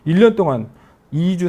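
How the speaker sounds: ordinary talk, nothing marked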